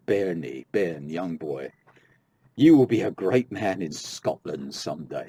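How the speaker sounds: mildly acted exclamation, building in force; exclaiming. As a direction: start measured, then pronounce it firmly over the boy. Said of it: "he exclaimed".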